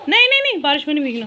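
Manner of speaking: loud high telling-off; scolding call. Real, not acted. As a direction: stop them loudly. Stopping kids going into rain.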